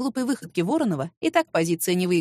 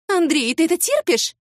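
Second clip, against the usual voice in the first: higher, louder whiny appeal; offended squeal; 7 semitones higher, 5 dB louder than usual. A narrator's reading. Rival appealing to the boss, shrill and offended. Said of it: "взвизгнула Нелечка обиженно".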